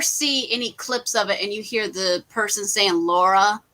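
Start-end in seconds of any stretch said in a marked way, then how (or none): 2.9-3.6 "Laura" said as Lara, the Russian way; Russian pronunciation. Shown as a demonstration. Showing a co-host the film pronunciation, "Laura" said as Lara. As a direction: pronounce "Laura" without the U, as Lara. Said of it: "That's how they say it".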